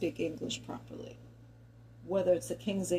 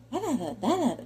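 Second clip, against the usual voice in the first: put-on Valley Girl babble; 6 semitones higher than usual. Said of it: "you know, like that".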